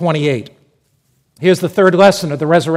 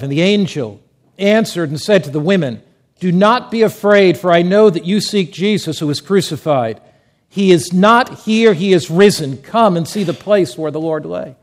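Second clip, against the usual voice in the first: loud, declamatory Bible reading; scripture reading; 4 dB louder than usual. Acted. Preacher reading the resurrection account to the congregation, loudly proclaimed. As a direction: proclaim the verse to a full room.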